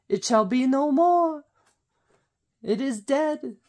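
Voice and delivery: lightly hammed-up British accent, lingering on each word; Monty Python voice. Vlogger slipping into a Monty Python British accent, lightly hammed-up. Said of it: "I went a little Monty Python there".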